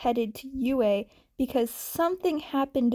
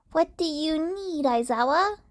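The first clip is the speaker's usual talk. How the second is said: put-on old nurse on phone; 4 semitones higher than usual. Recovery Girl answers phone.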